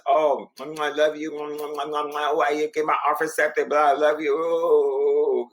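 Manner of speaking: lightly voiced sweet-talking agent, drawn-out love you; mock the agent cooing over the offer; gushing agent impression. Agent sweet-talking the realtor, light mocking coo. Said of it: "And the agent was".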